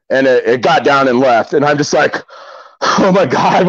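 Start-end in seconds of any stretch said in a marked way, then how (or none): 2.8-3.7 higher-pitched imitation of stunned relief; retold shock. Bear got down and left, retold shock. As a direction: replay the shock of a close call.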